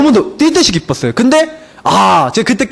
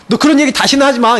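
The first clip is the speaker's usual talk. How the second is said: mild mock-angry warning, pitched up; imitating angry friend; 5 semitones higher than usual. Friend telling him to drop the subject, mock angry. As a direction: retell a friend's irritated refusal in a higher voice. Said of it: "저한테 화를 내는 거 있죠".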